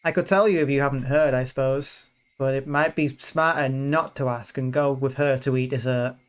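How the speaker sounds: reading the story's narration and character lines aloud; visual novel reading. Acted. Player reading the game's festival scene aloud, lightly voiced. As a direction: read the scene out for the viewers, voicing each character lightly.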